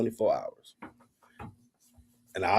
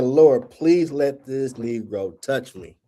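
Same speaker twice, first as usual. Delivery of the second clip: mock prayer. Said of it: "I'm praying".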